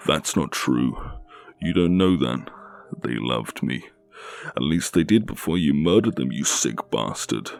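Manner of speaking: loud, high furious denial; angry yelling. Acted. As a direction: yell it back at him. Captive yells at her captor.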